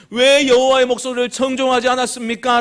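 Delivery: high, loud reproachful question; acted rebuke. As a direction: demand an answer as an accusing prophet. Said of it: "질책하고 있는데".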